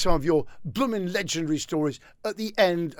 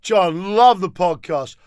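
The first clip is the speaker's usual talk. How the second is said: lightly voiced fan, louder at first; enthusiastic punter; 4 dB louder, slower than usual. Fan praising the host on the street, enthusiastic. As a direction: hail him with loud praise. Voicing fans met on the street.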